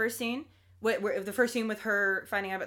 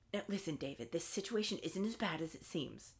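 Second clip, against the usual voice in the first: soft voice; 5 semitones lower, 12 dB quieter than usual. Retold or imitated. Mother car voiced to David.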